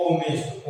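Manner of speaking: ऑनेस्ट starting straight on an O sound; silent H. Shown as a demonstration. Teacher explaining why it takes एन, ऑनेस्ट with silent H. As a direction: drop the H in ऑनेस्ट. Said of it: "यहाँ एच silent है".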